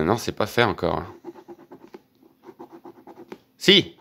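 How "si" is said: sudden high yelp of surprise; realising you've won; surprised. Real, not acted. Spots a winning word. (surpris, aigu et soudain)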